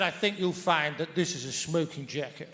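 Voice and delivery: quiet, laughing comeback; a chuckling mock-proud retort; laughing reply. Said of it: "And I said".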